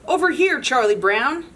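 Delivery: high bright call across the field; lightly voiced little girl calling; calling out as Lucy. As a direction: sing it out to lure him over. Lucy calling Charlie Brown.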